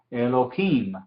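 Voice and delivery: Elohim with the stress on its final syllable, him; stress on last syllable. Shown as a demonstration. Teacher showing the tonic syllable, Elohim stressed on him. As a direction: say Elohim, leaning on the closing him. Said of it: "him es la sílaba tónica".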